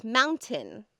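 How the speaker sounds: "Mountain" with a swallowed T; dropped middle T. Shown as a demonstration. Showing how Californians speak, "Mountain" with no middle T. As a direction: skip the T inside "Mountain". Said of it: "we don't say our T's in the middle of words".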